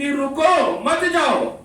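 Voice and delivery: high, slow رکو, then مت جاؤ together; break after رکو. Shown as a demonstration. Preacher contrasting two meanings for listeners, break after رکو. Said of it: "ایک کے اندر یہ ہے".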